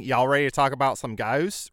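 lightly imitated Australian accent; a hint of mock Australian. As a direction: quote it with stretched Australian vowels. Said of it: "like, an Australian accent".

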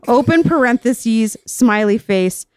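slow, deliberate dictation of punctuation; dictating. Shown as a demonstration. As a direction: spell out each mark like dictation. Reads out diary punctuation marks.

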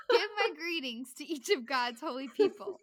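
reading while laughing. Real, not acted.

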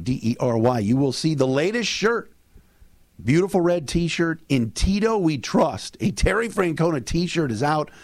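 upbeat sponsor read, brisk. Acted. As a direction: sell the shirts like a host. Sponsor read mid podcast.

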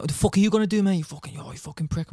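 hammed-up goon squaring up to the official; mouthing off. Hockey goon mouthing off at the dad in the penalty box, mock snarl. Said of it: "mouthing off to my dad".

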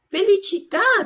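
high, loud, bright bless-you from a small puppet; eager puppet boy. A narrator's reading. Pinocchio blesses the sneezing puppeteer, high and eager. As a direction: chirp it eagerly. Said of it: "disse Pinocchio".

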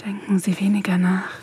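hushed coaxing whisper. Acted. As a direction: whisper it to let them fall. Coaxing partner in erotic scene. (leise, lockendes Flüstern)

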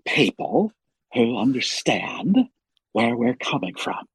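slow, quiet Giamatti voice; soft, deliberate actor impression; Paul Giamatti. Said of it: "Paul Giamatti is, uh, is one of my favorites".

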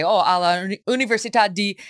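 speaking Italian as a student abroad; careful Italian pronunciation; imitated Italian accent while answering. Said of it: "putting it in an Italian accent".

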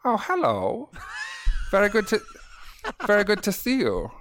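comically high German assassin; high-pitched German accent. Retold or imitated. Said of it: "by the end of it, I'm, I'm very much like".

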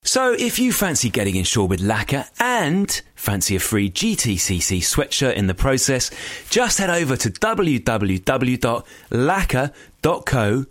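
lively sponsor announcement; scripted ad read. Acted. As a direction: sell it like a podcast promo.

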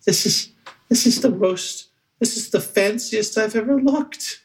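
high goblin voice, touched to tears; awed small goblin, high and halting; moved goblin. Acted. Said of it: "uh, and he's like".

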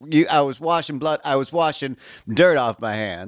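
mock suspect.

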